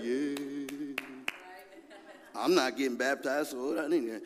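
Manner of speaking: low, soft, mock-apathetic mumble; half-hearted and low; unenthusiastic churchgoer. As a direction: imitate someone who can't be bothered. Acting out an uninterested congregant.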